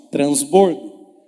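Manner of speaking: low, slow, loud drawn-out Transbordo; loud demo word. Shown as a demonstration. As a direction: boom out Transbordo slowly for the crowd to repeat. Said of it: "Fala assim com a sua boca".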